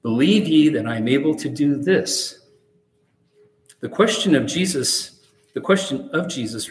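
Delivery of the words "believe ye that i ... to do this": "this" emphasized, rising at the end; stress on this. Shown as a demonstration. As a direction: land the question on "this". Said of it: "lay special emphasis on the word "this".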